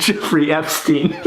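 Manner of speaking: breaking into laughter on the name; laughing punch line. Real, not acted.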